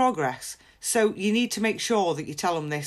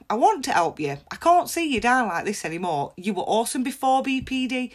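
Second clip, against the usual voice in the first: encouraging tone. Shown as a demonstration. Friend encouraging someone with BPD, warm and upbeat. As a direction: cheer a struggling friend on kindly. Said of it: "with this tone of voice as well".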